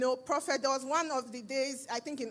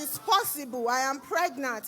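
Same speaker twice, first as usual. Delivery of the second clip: louder, insistent retort; telling the doctor she is pregnant, louder; insisting; 4 dB louder than usual. Retold or imitated. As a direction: push back firmly on the doctor.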